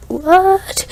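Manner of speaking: high, rising drawn-out "what"; friend's shocked what. Retold or imitated. Friend reacting to news of a fire, shocked. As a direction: imitate a startled friend's stretched, high "what". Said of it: "my friend was like".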